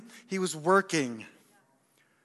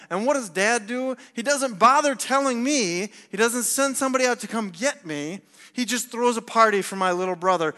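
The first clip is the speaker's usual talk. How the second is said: indignant, higher and louder in bursts; upset older brother; 3 semitones higher, 4 dB louder than usual. Acted. Dutiful son protesting the party for his brother, indignant. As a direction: build a case as the wronged brother. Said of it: "Does this guy sound justified".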